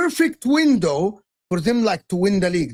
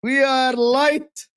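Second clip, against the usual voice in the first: mock rival fan; much slower than usual. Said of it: "Liverpool fans are gonna come at us and say".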